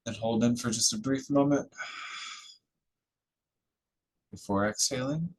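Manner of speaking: calm instructions with long pauses; guided meditation. Real, not acted. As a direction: ease them into it, leaving room to breathe. Leads a breathing meditation.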